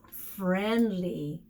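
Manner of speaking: stretched slow "And friendly"; very slow vocab word. Shown as a demonstration. Teacher slowly introducing the word "friendly" to children. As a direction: drag it out gently for the kids. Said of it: "learn how to be friendly".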